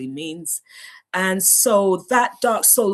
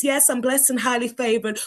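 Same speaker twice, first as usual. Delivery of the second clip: a light, higher church-talk cheer; Christianese; 6 semitones higher than usual. Pretend. Hiding despair from church people, lightly mock cheerful. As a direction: put on the happy believer front. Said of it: "I learned how to do the Christianese".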